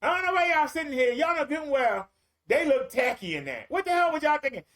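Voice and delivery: brash church outburst. Retold or imitated. Guest mocking the bridal party in church, indignant. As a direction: call it out to the whole church, high and cheeky. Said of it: "stand up in the middle of the whole church and say".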